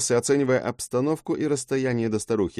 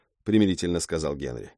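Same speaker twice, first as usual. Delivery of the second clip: usual speaking voice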